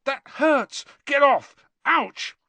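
high, loud yelps; pained protest. A narrator's reading. Boy being poked painfully in the side, yelping in protest. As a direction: cry out against being prodded.

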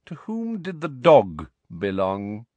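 slow, cold, measured sneer; cold Snape voice. Acted. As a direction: drawl it like a cold professor. Snape questions Harry.

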